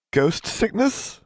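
high, slow, rising question; alarmed. A narrator's reading. Boy turning paler at the news, alarmed. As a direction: echo it in dread, drawn out. Pale boy hears of ghost sickness.

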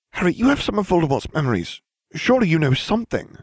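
put-on high-pitched girl's voice; urgent, high character voice; earnest Hermione. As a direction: press a friend for answers, pitched well up.

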